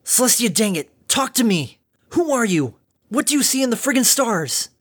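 loud, high furious shout; vicious snarl. Acted. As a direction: shake the answer out of her. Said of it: "In a vicious snarl".

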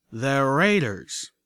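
even. Acted. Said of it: "Calamity said evenly".

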